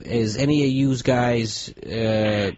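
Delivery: put-on slow, hesitant try at a Brooklyn accent; attempted Brooklyn accent. Customer tries asking mechanics for help, halting Brooklyn accent. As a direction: feel your way awkwardly into Brooklyn speech. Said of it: "Use the accent".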